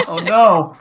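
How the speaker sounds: usual speaking voice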